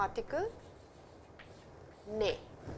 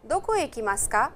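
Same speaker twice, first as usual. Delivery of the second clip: two voices on a radio drill, loud and clear; recorded dialogue; 5 dB louder than usual. Acted. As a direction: play the textbook dialogue like a recording.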